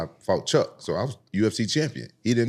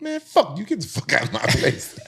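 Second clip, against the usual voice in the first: angry telling-off; 13 semitones higher, 4 dB louder than usual. Retold or imitated. Telling off the bully.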